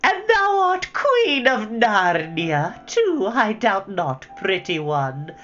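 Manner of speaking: high, slow, sugary tease; a witch coaxing Jill, half mocking. A narrator's reading. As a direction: coax and mock her at once. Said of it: "in the same coaxing, half-mocking tone".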